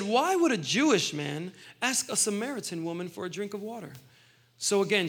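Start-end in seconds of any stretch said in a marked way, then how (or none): 0.0-3.9 puzzled question with a swooping "why"; mildly surprised. Retold or imitated. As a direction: read it as a mildly taken-aback question. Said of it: "Surprised, she said".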